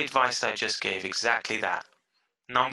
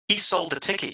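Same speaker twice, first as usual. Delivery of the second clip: normal talking voice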